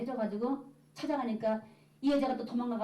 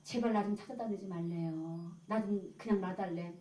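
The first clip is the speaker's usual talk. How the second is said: lightly imitated weeping plea, slowing toward the end; retold tearful plea; 3 semitones lower than usual. Woman begging the churchworker to leave her alone, mock-tearful pleading. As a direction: plead wearily, as if retelling someone's tears. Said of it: "울면서 하는 말이".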